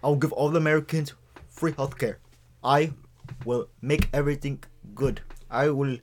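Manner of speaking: halting presidential promises; Barack Obama impression. Co-host as president promising healthcare, halting voice. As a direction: pause hard between the pieces of the pledge. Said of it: "It's Barack Obama".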